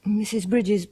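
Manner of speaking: gentle whisper. Acted. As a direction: whisper her name kindly. Lady softly addresses grieving cook.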